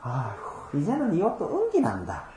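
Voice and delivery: lightly voiced weary old diver from Guryongpo; old haenyeo's dialect. Pastor imitating an elderly diver from TV, sighing in Gyeongsang dialect. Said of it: "뭐라 그랬냐면".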